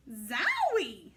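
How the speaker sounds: a startled zowie; surprised exclamation. Acted. Ada hit by a horrible stench, startled exclamation. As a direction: react to a sudden stink.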